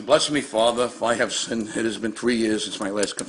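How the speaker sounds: a light hint of a sinner confessing to the priest; confession voice. Homeowner joking he's in the confessional, lightly voiced penitent. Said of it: "it's like I'm in confession".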